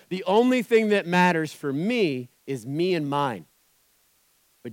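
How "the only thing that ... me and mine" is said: slow, smug self-centred voice; mock the selfish believer; hammed-up me-first attitude. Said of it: "So we go".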